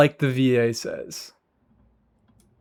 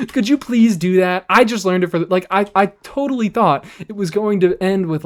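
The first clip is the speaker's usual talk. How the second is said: mocking commenter; 5 semitones higher, 3 dB louder than usual. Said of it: "mocking commenter again".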